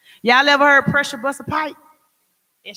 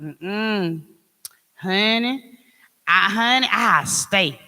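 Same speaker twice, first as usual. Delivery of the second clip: gossipy friend; slower than usual. Retold or imitated. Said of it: "same person told you".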